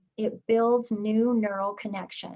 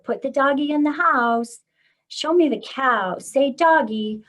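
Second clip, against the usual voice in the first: put-on higher, louder prompts to a toddler; child-directed instructions, pitched up; parent giving commands; 4 semitones higher, 5 dB louder than usual. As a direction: coax a small child with simple commands. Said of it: "Commands are things like".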